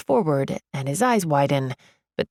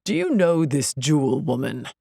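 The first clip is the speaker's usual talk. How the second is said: lower, mildly raised guard voice; shouting security guard; 3 semitones lower than usual. A narrator's reading. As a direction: demand an answer as a guard. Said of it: "the security guard shouts".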